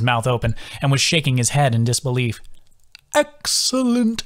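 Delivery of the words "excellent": slow and much higher, stretched out; slow rising croon of delight; delighted sing-song creature. A narrator's reading. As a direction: savour it like a treat. Bog savours the word.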